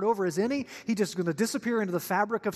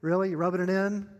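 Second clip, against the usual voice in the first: low, weary grumble; dry, put-upon muttering; sarcastic; 5 semitones lower than usual. Acted. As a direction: answer as a tired fisherman being needled. Weary fishermen's sarcastic reply.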